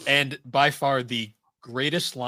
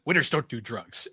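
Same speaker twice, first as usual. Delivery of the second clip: matter-of-fact. Retold or imitated. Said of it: "in this very matter-of-fact way".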